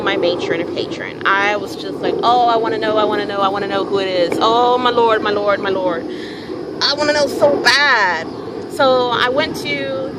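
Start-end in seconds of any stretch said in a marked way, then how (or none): 2.2-8.3 desperate wanting; eager pleading. Retold or imitated. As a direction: beg to know, impatient. Pleading to know her gods.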